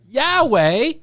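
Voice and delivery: high excited yell of Norway; excited shout. Pretend. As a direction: cheer it like a tour hype. Cheering tour name.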